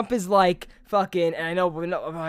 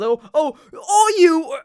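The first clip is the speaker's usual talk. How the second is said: shouting; 8 semitones higher, 8 dB louder, slower than usual. Retold or imitated. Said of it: "and he goes".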